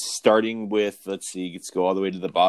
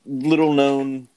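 sarcastic; 3 semitones higher, slower than usual. Acted. Ironic intro of Spielberg.

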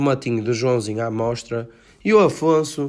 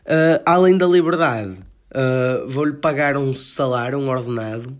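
excited; 5 dB louder than usual. Real, not acted. Excited about the deal.

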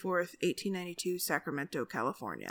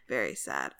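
mock sad; 4 dB quieter than usual. Mock sad echo, deep.

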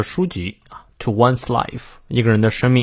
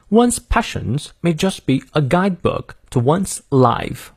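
slow, higher British teaching read; British accent; 4 semitones higher, slower than usual. Shown as a demonstration. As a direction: model the line slowly in British English. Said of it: "我们来看一下英式发音".

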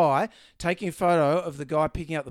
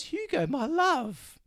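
read-out love note; 7 semitones higher, much slower than usual. Acted. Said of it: "It says".

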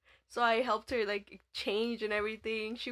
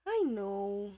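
put-on drunk sister; slower than usual. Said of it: "getting really drunk".

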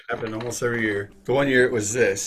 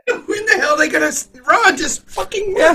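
exasperated yell; 6 dB louder than usual. Retold or imitated. Coach yelling at players who won't run, exasperated shout. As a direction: shout it like a coach at wit's end.

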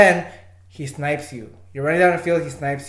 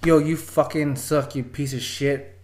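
trash talk; 2 semitones lower, slower than usual. Shown as a demonstration. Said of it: "All right, here, look".

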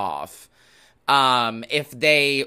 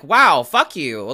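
mock retort; 6 dB louder, slower than usual. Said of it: "I'm like".

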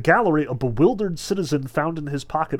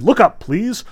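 raised, higher showman's order; commanding; 7 semitones higher, 7 dB louder than usual. A narrator's reading. Fagot directing the whole audience, raised command. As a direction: order the crowd, lightly theatrical. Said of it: "he commanded".

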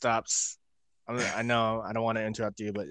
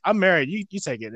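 loud mock protest; 8 semitones higher, 8 dB louder than usual. Imitating Ember refusing gift.

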